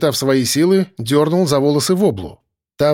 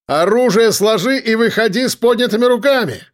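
command; 8 semitones higher than usual. A narrator's reading. Narrator ordering the gunman to come out. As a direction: order the surrender firmly. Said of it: "приказал я".

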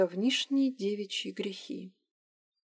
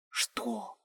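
hushed low question; whisper; 6 semitones lower, 7 dB quieter than usual. A narrator's reading. Irina whispers to Liza, hushed. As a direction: ask it under your breath. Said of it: "шёпотом спросила Ирина".

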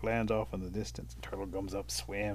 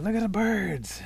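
high, drawn-out, louder answer; excited turtle; 10 semitones higher, 5 dB louder, slower than usual. Acted. Turtle tells the fish what he watches, high and excited. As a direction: stretch it out in high wonder.

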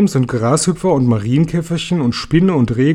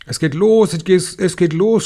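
higher, urgent cry, lightly acted; mild excited cry; 5 semitones higher than usual. A narrator's reading. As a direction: call out the alarm, without full shouting. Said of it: "schrie jemand". (leicht aufgeregter Ausruf)

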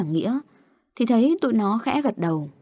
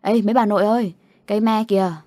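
retold yell; 3 dB louder, faster than usual. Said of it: "nó hét lên".

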